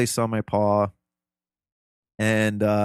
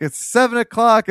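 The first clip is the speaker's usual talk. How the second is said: grandpa announcing the time; 12 semitones higher, 7 dB louder than usual. Retold or imitated. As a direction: drag out the time, then chirp the wake-ups. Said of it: "He's like".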